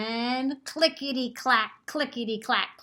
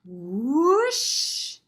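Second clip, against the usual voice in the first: story narration. A narrator's reading. Librarian reading a picture book to children, lively storytelling. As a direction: tell the story to the class with gusto.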